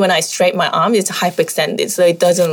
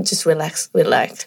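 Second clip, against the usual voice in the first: calm yoga teacher; 4 dB quieter than usual. Retold or imitated. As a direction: ease a straining student down gently. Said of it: "but I'll go up to them".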